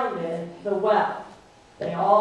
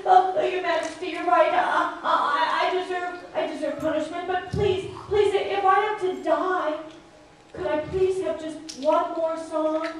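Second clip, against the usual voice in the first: higher, quick fawning plea; pleading trickster; 5 semitones higher than usual. Acted. Shulo begging the king for one last dance. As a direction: flatter and beg the king.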